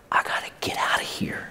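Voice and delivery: hushed, voiceless whisper to himself. Acted. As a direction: breathe it out with no voice at all. Inner voice of struggling Jesus.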